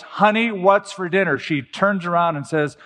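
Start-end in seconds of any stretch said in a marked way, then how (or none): 0.0-1.4 higher, firmer, a mildly raised call. Retold or imitated. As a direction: lightly insist right behind her. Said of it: "says in a firm voice".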